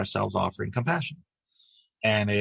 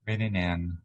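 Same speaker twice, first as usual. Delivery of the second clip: calm, even meditation guide with long pauses; unhurried lead through breath and body, leaving space between phrases; guided meditation. Acted. Guiding a group to relax as light flows down, guided meditation.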